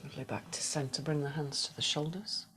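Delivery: soft, unhurried meditation guidance with whispered cues; guided meditation. Acted. Yoga teacher guiding the class through a body scan, soft meditation voice. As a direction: ease the class into stillness, gently.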